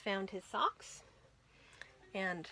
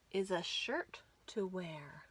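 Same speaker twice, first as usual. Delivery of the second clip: breathy whispered line; hushed storytime whisper; 4 semitones lower, 6 dB quieter than usual. Acted. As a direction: whisper the rhyme softly.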